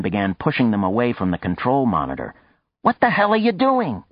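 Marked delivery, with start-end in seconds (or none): 2.8-4.0 high, loud alarmed yell. A narrator's reading. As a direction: shout it in alarm. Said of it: "Maya yelled".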